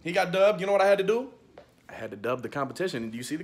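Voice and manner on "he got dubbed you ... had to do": loud, high gloating. Real, not acted. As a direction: rub the win in loudly. Still gloating over loser.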